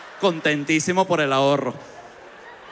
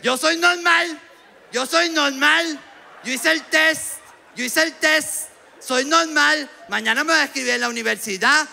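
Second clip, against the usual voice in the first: mock insistent shout; 11 semitones higher than usual. Borderline guy insists he is normal, high mocking shout. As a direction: yell you're normal, proud and desperate.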